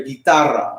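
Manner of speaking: guitarra as "gee-TAR-ra"; Spanish pronunciation. Shown as a demonstration. Teacher repeats the Spanish name, Spanish pronunciation. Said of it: "In Spanish, you can pronounce it as".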